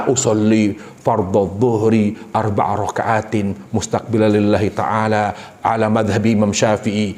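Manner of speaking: slow, low, laboured intoning; imam reciting intention. Acted. Preacher mimics imam drawing out his intention, slow low recitation. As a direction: draw out the recitation like a long-winded imam. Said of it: "imam itu ingin narik niat".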